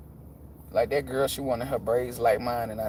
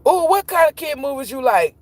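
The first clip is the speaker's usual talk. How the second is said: put-on high curious kid voice; imitating a kid; 12 semitones higher, 5 dB louder than usual. Step kid asking about kid movies in a high kid voice. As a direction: play the eager little kid asking.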